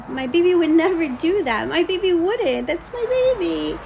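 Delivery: retold shocked denial; protesting disbelief. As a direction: protest it like a mother defending her child. Recalls own disbelief at vision.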